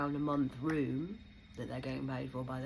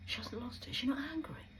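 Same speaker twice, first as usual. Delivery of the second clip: mock surprise; 5 dB quieter, faster than usual. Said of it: "They're surprised".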